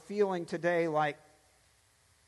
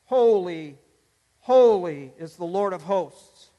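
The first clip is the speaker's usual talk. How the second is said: louder proclaimed "Holy, holy, holy" with a pause after each; seraphim crying out; 5 dB louder than usual. Retold or imitated. Preacher voicing the seraphim's cry, loud and proclaiming. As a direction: ring out each "holy" like a heavenly call. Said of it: "the seraphim are crying out".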